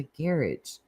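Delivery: puzzled echo of GARAGE as garridge; GARAGE with the stress up front and an -idge ending; British garage. Retold or imitated. Streamer baffled by what Brits were saying, British GARAGE. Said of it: "I kept hearing this garage".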